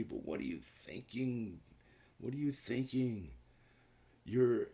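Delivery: high-pitched, incredulous telling-off; exasperated scolding. Pretend. Host to a young player about drag racing, exasperated scolding.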